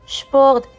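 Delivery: شبورت said with shp at the start, German Sport. Shown as a demonstration. Teacher modelling German Sport with shp. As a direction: open شبورت with a firm shp. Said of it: "والاس بي ش".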